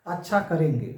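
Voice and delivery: "अच्छा" first, falling to a settled end; plain willing consent; accepting. Shown as a demonstration. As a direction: agree simply, leading with "अच्छा". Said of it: "स्वीकृत हो गया".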